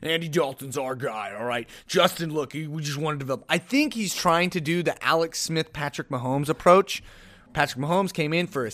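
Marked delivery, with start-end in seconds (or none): 0.0-3.4 a hint of a coach talking to his quarterback; understated mock coach voice; Nagy impression. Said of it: "for the sake of my impression".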